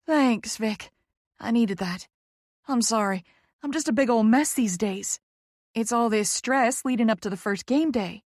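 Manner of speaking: lightly voiced Southern lady, apologetic; Poppy, apologetic Southerner. Poppy apologising for being frazzled, Southern voice. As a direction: own up sheepishly in a Southern voice.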